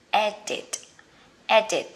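edit stressed on the first syllable, ED-it; careful English pronunciation. Shown as a demonstration. Teacher modelling edit for learners, clear and even. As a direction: model edit with a light final t. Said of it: "Chỉnh sửa của mình sẽ là".

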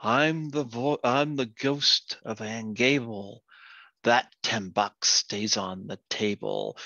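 slow, lightly intoned ghost warning. Acted. Ghost warning the Frenchman off the money, slow intoning. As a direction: draw the words out like a mild spook. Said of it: "the voice".

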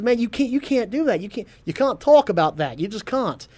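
imitating Chris Hemsworth in a mock Australian accent; a rough Australian accent with an exasperated edge. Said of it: "You trying to speak in an accent".

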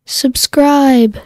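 loud, clipped recording; said firmly into the mic. Shown as a demonstration. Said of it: "Hold down the button and say".

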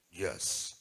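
low seventies radio DJ. Retold or imitated. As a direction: imitate a smooth late-night FM host. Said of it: "said that in his F M radio voice".

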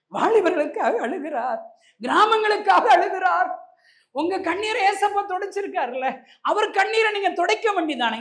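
climbing pitch, preaching harder each line; rising preaching. Acted. Preacher urging the congregation, rising in fervour. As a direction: build the sermon up to a pleading cry. Preacher rises into full force.

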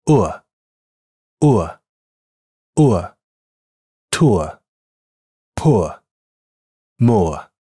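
slow gliding ʊə vowel, held long; 呃 glides from u to schwa, said very slowly; ʊə sound demo. Shown as a demonstration. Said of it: "它是这么发音的". (慢速示范双元音ʊə)

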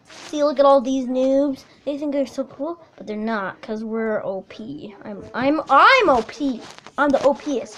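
soft, low gloating; smug murmur. Real, not acted. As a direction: gloat under your breath.

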